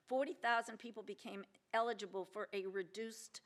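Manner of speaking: eligible given light extra weight; stress on eligible. Real, not acted. Explaining the prisoner releases, stress on eligible. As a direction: lean on the word eligible. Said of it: "I emphasize the word eligible".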